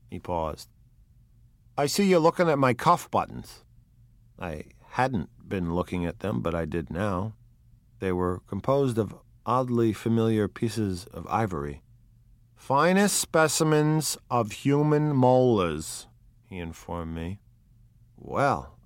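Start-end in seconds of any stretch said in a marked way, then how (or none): 1.8-3.6 Wolfsheim. Acted. Wolfsheim shows cuff buttons. 12.5-16.1 Wolfsheim. Acted. Wolfsheim boasts.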